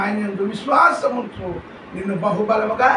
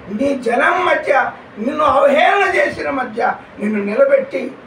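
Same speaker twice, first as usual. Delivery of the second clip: full-force preaching; 3 semitones higher than usual. Acted. Pastor rousing the congregation about giants, fervent preaching.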